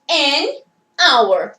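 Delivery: "N, hour" as "an hour", vowel-first, spaced out; silent H. Shown as a demonstration. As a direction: say "N, hour" slowly apart, no H breath. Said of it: "não escuto essa consoante". ("N, hour" com H mudo, bem separado)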